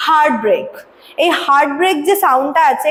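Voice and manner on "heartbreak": "heartbreak" with both syllables equally stressed. Shown as a demonstration. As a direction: give both halves of "heartbreak" equal, strong weight. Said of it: "দুটো সিলেবলই কিন্তু ইকুয়ালভাবে".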